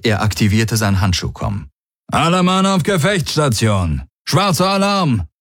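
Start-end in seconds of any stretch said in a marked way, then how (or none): 2.1-5.3 hoch gerufener militärischer Befehl; Alarmruf. A narrator's reading. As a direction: rufe die Mannschaft zu den Waffen. Feldherr ruft Alarm über Komm aus. (Alarmbefehl mit hoher Stimme)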